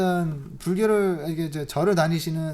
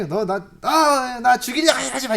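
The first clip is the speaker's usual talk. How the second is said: loud, higher mock scolding; mock scolding mother-in-law; 5 semitones higher, 7 dB louder than usual. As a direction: snap at her like a sour mother-in-law. Mother-in-law accusing her. (며느리를 꾸짖는 시어머니 흉내, 크고 높게)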